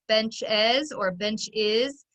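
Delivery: BENCHES slowly split, ending first "ez", then "iz"; exaggerated ending vowel. Shown as a demonstration. Teacher showing how the E comes out, slow, split endings. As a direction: stretch "benches or bench is" to show "bench-ez" versus "bench-iz". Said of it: "comes out as an I or an E".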